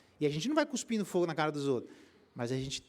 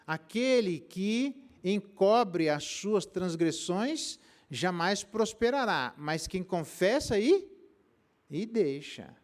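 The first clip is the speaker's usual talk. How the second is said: solemn scripture reading; 4 semitones higher, 4 dB louder, much slower than usual. Acted. Pastor reading Bible verse aloud.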